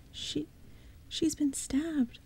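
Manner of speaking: high, slow, broken whisper; choked out. Acted. Clown choking out the horror to the crowd. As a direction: force the words out through a tight throat. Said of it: "the clown managed to choke out".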